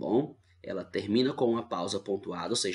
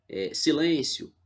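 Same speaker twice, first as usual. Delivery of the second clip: drawn-out hush command; 6 semitones higher, 6 dB louder, slower than usual. Shown as a demonstration. Teacher repeats the one-word sentence.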